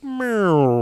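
drawn-out little cat noise; imitated deflated meow.

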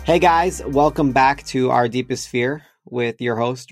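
usual speaking voice

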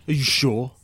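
breathy whisper, teasing the crowd; whispered challenge. Acted. Storyteller whispering a dare to his drunken tavern listeners.

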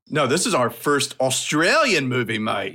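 put-on light jokey Australian accent. Host announcing the first Australian movie, jokey Australian accent. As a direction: lay on a little Aussie twang.

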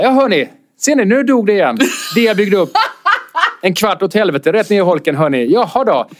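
mock the sour couple with fake cheer; bitter sarcasm. Comic announcing to the room, bitterly sarcastic. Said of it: "nej, nej, bittert".

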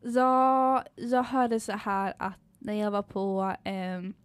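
drawn-out mock Stockholmer voice; Stockholm accent. Host getting into role as Stockholmer, mock Stockholm accent. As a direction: play a Stockholmer, hesitating and slow. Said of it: "komma in i rollen som stockholmare".

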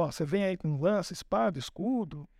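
low, steady and measured; a hint of solemn resolve; calm defiant David. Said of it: "Ele falou".

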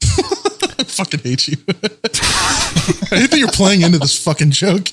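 high, slow words through laughter; laughing protest. Real, not acted. Host to friend playing along with the joke, laughing. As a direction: protest while helplessly cracking up.

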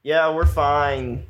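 slow, loud raider voice faking calm; gruff raider bluffing over the radio; feral wasteland raider. Acted. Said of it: "I try to do a raider voice".

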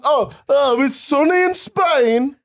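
high, loud, drawn-out cooing; mock weather enthusiast. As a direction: imitate someone thrilled by the forecast. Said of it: "Who sits there and goes".

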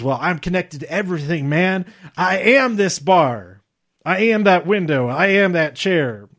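lightly put-on Southern accent; slight Southern US accent impression, leaning on "I am"; Jeff Hardy. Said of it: "my other Southern accent impression of Jeff Hardy".

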